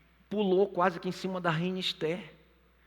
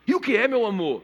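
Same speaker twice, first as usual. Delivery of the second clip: higher, louder fond question to his queen; king's loving question; 6 semitones higher, 5 dB louder than usual. Retold or imitated. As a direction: ask "meu amor" up high with eagerness. King voiced higher, louder.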